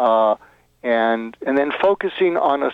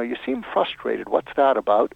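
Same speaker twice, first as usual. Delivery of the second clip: gentle question. Shown as a demonstration. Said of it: "you want to start out with".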